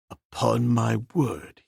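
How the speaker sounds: rueful. Acted. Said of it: "he said ruefully".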